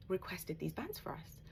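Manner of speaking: breathy secret aside, slowed down; whisper. Real, not acted. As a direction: let it slip out as a hushed confidence. Quiet aside about staff member.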